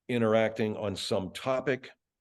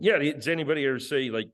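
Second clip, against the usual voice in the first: a lightly raised, cheeky sidekick voice; Bud character voice; 4 semitones higher than usual. Acted. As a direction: Bud butting in with a smirk, a bit higher. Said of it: "and then Bud jumps in".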